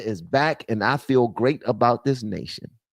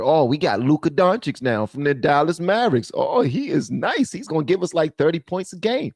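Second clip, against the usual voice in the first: mocking the Lakers; 5 semitones higher than usual. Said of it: "And then they figure".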